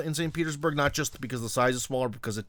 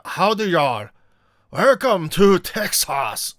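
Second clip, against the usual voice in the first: slow, louder hammed-up Texas drawl; rural Texas accent; 4 semitones higher, 6 dB louder, slower than usual. Imitating a foreigner raised in rural Texas, hammed-up Texas accent. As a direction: play a Texas yokel welcoming a visitor, stretched out in a Texas drawl. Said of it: "rural Oklahoma or Texas".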